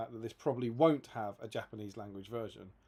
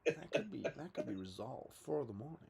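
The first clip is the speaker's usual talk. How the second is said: Devin. Pretend. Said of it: "Devin said he was gonna call Jay Clare".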